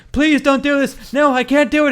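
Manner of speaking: mock a terrified victim begging; begging for life.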